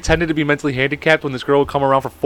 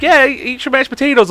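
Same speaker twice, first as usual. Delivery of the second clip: encouraging girl, imitated; 10 semitones higher than usual. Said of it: "she's just like".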